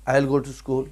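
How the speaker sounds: "I'll" as one word in the sentence; contracted pronunciation. Shown as a demonstration. Teacher modelling how students should pronounce it, contracted pronunciation. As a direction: run I and will together in "I'll". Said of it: "اس کو پروننس بھی ایسے کرنا".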